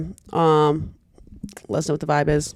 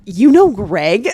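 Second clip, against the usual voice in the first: slow, stretched and loud; mock shock, slow and loud; drawn-out surprise; 6 dB louder, much slower than usual. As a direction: drag it out in disbelief. Friend's retold surprised question.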